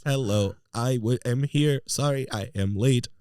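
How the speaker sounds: slow stiff robot guest; toy robot voice. Pretend. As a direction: speak slowly like a robot. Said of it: "That's your next week's guest".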